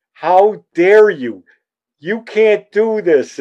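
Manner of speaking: the offended manager who won't stand for it; mock angry yell. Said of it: "she's yelling at me".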